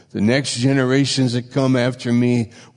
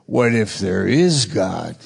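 mock startled wonder; slower than usual. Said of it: "he has to entertain the thought".

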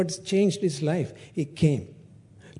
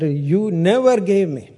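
resentful complaint; 3 semitones higher, 5 dB louder than usual. Acted. Elder son's complaint.

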